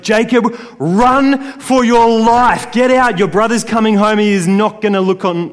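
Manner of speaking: high, loud frantic mother's warning; retold yell. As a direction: shout at him to run for his life. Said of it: "she yells at Jacob".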